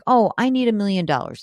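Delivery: a hint of a gullible saver parroting "million dollars"; mock naive saver. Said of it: "sometimes when you hear, like".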